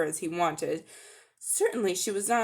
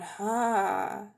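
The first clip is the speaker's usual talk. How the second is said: long-drawn ha. Acted. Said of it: "The queen gave a long-drawn".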